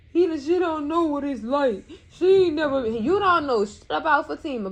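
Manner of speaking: angry outburst at a TV character; heated rant. Real, not acted. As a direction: tell him off, fired up. Ranting angrily at a TV character.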